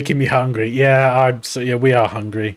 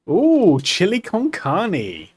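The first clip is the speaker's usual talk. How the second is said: longing ooh; 6 semitones higher, much slower than usual. Real, not acted. Drawn-out longing.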